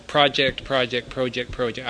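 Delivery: trying project both ways, prah-ject and proh-ject; two ways of saying project. Shown as a demonstration. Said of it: "I don't know if I'm doing right or not".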